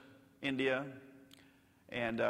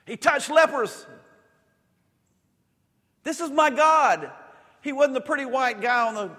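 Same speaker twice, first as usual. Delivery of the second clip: full-force preaching; 11 semitones higher, 10 dB louder than usual. Real, not acted. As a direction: declare it with everything you have. Preacher's climactic declaration.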